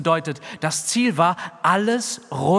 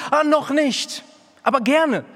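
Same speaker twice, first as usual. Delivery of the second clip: very high, loud sing-song excuse; mocking sweet excuse; 12 semitones higher, 4 dB louder than usual. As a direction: mimic the sweet-sounding put-off. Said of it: "die klingen so gut".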